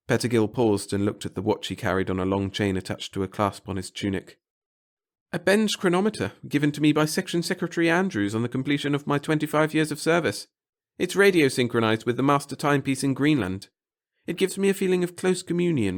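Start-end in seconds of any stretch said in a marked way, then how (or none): 5.3-16.0 pompous little clerk. A narrator's reading. The clerk grandly telling the reporter of his devotion to the center. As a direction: preach your humble service grandly. Pettigill proud.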